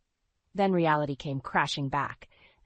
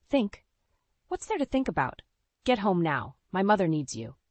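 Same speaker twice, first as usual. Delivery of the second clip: much higher, angry; furious demand; 4 semitones higher, 3 dB louder than usual. Acted. Husband ordering his wife home on the phone, furious.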